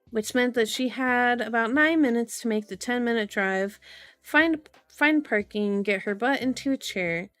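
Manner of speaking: measured audiobook-style reading; story narration. A narrator's reading. Streamer reading a novel to viewers, story narration. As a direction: read the story out evenly and clearly.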